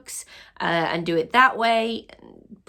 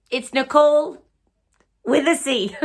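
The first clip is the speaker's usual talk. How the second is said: excited announcement; 6 semitones higher, 4 dB louder than usual. Real, not acted. Announcing the giveaway winner.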